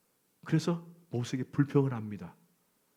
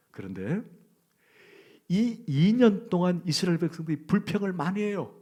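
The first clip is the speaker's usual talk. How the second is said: ordinary talk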